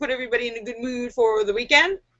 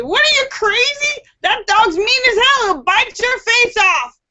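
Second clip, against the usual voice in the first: angry redneck; 11 semitones higher than usual. Retold or imitated. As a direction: squeal it out as the scandalized redneck. Other redneck scolds friend.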